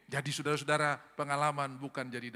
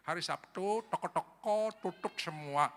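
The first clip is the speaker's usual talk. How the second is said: put-on Balinese accent; 4 semitones higher, slower than usual. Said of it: "itu orang Bali".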